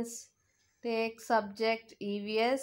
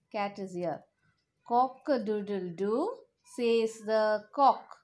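put-on reading to a toddler. Teacher reads song to children.

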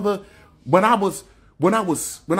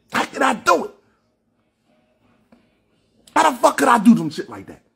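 pleading with himself, growing into a shout; anguished rising outcry; 3 semitones higher than usual. Real, not acted. Telling his people about his guilt, anguished rising outcry.

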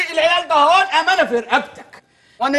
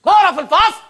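angry scolding; 5 semitones higher, 4 dB louder than usual. Acted. Teacher scolding unruly class.

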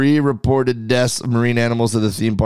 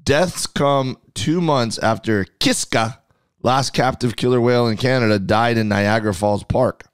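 measured news article read; article read aloud. Real, not acted. Cohost reads news of deaths at Marineland, reading aloud.

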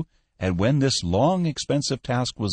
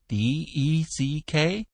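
slow, raised, questioning spelling; puzzled query; 7 semitones higher, slower than usual. A narrator's reading. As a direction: echo the letters back unsure. Cook mishears and queries spelling.

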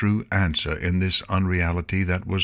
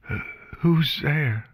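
high, hesitant squeak; raspy squeak; 8 semitones higher than usual. A narrator's reading. Blinded unicorn asking who is in the room, high choked squeak. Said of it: "Her voice came out in a raspy squeak".

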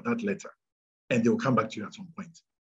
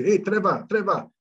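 high, raised voice hailing Trevor in the street; street passer-by calling out; 7 semitones higher, 4 dB louder than usual. Retold or imitated. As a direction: call out an urgent, joking warning to someone you know. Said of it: "People would meet him in the streets and say".

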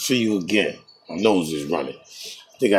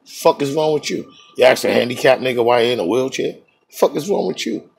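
retold annoyed retort; 4 semitones higher than usual. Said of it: "That's what they told me".

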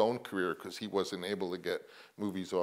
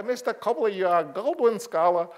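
put-on much higher and louder, an old mogul gushing; Sam Goldwyn impression; 8 semitones higher, 7 dB louder than usual. Old Goldwyn praising young Coppola, high loud imitation. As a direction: play the studio boss fawning over a young talent. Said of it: "he talked like I'm gonna talk".

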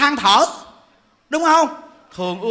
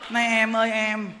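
mock gracious wife; 3 semitones lower, 5 dB quieter than usual. Wife offers bananas to mistress.

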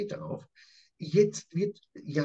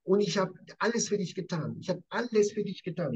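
reproachful outburst; 4 semitones higher than usual. Acted. Jakob reproaching Laban.

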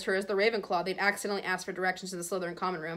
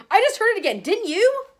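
high, loud and pressing; insist, wide awake with alarm; urgent insistence; 13 semitones higher, 9 dB louder than usual. A narrator's reading. Harry urging Ron and Hermione, high and loud.

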